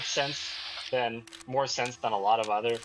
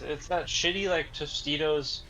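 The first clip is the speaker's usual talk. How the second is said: straining with the jar; frustrated lid twisting; opening stuck jar; 4 semitones higher than usual. Real, not acted. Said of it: "I can't fucking open it".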